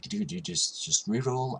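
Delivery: a high-pitched imitation of his friend's Middle Eastern accent. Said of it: "That was, like, Middle Eastern accent".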